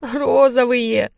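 high, very slow whimper. A narrator's reading. Listar whimpers about the rabbits' pink colour. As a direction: whine it like a hurt child. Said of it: "прохныкал Листар".

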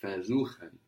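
"Versuchen" starts with an F sound and a Z, fair-zoo-khen; German V as F. Shown as a demonstration. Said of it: "but that V is an F".

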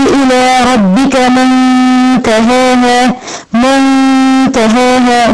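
slow منتهاها with the nun hidden in a held nasal hum; nasal ghunna. Shown as a demonstration. Teacher showing the student the ikhfa nasal hold. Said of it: "هتقولها بقى ازاي وتدي غنة فيها".

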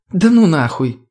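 high, scoffing disbelief; skeptical tone. A narrator's reading. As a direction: doubt it out loud. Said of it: "скептическим тоном подметила подруга".

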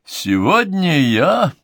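halting before a cough; breaking off into cough. Acted. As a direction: stop short, about to cough. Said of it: "Он умолк, громко кашлянул".

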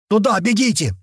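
громко кричит, запыхавшись; кричит, останавливаясь и держась за сердце; крик на бегу. A narrator's reading. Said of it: "прокричал этот мужик". (кричит на бегу)

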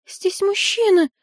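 very high little squeaky voice; squeak. A narrator's reading. Little priestess objects to a man present, squeaking. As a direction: squeal it in a tiny piping voice. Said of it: "пискнул тот же голосок".

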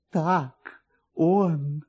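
slow, lingering joyful recognition; marveling. A narrator's reading. Kovalyov marvels over his found nose, slow and delighted. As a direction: savor each word in delight. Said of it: "говорил майор Ковалёв".

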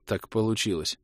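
subdued, squeezed voice; strangled croak. A narrator's reading. Hero crushed in a bear hug, strangled croak. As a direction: croak it out weakly. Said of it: "сдавленно прохрипел я".

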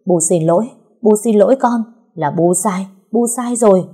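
loud, rushed, pleading apology; hastily loud apology. Acted. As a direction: blurt the apology out loud in fear. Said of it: "vội vàng nói lớn".

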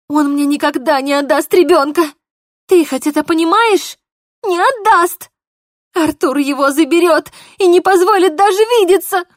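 high, loud crying protest; desperate tearful cry. Acted. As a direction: plead through rising tears. Polina in tears, desperate.

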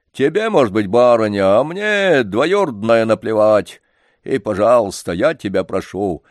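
put-on old organ-grinder telling the janitor to go away, angry; angry old man. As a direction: shoo him off in irritation. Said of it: "рассердился вдруг Лодыжкин".

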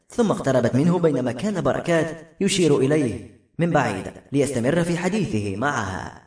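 usual speaking voice

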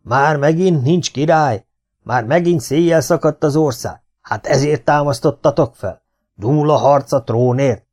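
agitated commander demanding answers; outraged. A narrator's reading. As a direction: fire off the questions in alarm and indignation. Hadvezér outraged at news of no king.

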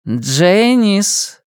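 harsh, commanding call; harsh, cold call. A narrator's reading. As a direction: call her sharply and coldly. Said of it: "жёсткий, холодный голос".

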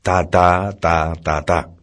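a husband comforted by his wife, smiling and blissful; consoled, blissful. A narrator's reading. Esposo consolado por su mujer, sonriente y beatífico. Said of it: "sonríe consolado y beatificado exclama".

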